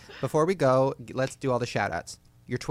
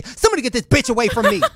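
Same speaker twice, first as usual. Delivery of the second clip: mock angry; 11 semitones higher, 9 dB louder, faster than usual. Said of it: "I'm angry right now".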